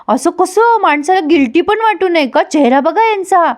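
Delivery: high, indignant telling-off, retold; acted-out reproach. Mukta reproaches Sagar for mistreating the girl, mock indignation.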